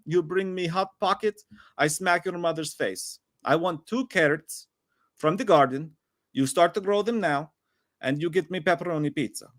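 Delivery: clumsy mock Russian accent, slowed on the middle lines; a deliberately bad Russian accent read off a fan message. Host hamming a bad Russian accent for the chat. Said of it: "Now I've gone into another accent because I'm not good at them".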